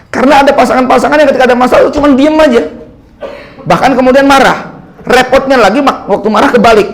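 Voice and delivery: amused, laugh it out while explaining. Real, not acted. Laughing while describing angry couples.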